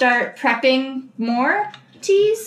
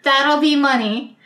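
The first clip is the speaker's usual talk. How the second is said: pushy bartender; 5 semitones higher, slower than usual. Pretend. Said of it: "I'm just gonna be like".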